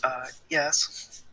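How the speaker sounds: high, put-on character voice; Delilah. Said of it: "How'd you like my Delilah voice?".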